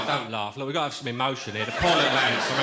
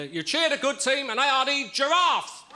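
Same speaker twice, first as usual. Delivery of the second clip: put-on booming old melodrama narrator; 12 semitones higher, 3 dB louder, slower than usual. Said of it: "come on, it's not a Tupperware party".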